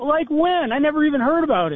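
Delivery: high, sarcastic, mock-astonished disbelief.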